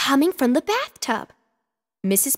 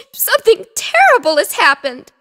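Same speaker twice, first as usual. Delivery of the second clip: loud, higher alarmed cry; 9 semitones higher, 9 dB louder than usual. Acted. Missus Picasso telling Mister Petsky, alarmed. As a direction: blurt out the bad news. Distressed owner at pet shop.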